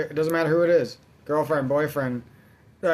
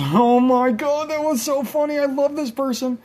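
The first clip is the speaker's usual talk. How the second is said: put-on gushing girlfriend; 10 semitones higher, 4 dB louder than usual. Mocking a girlfriend who gushes over a friend's joke, high. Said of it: "and you're just laughs".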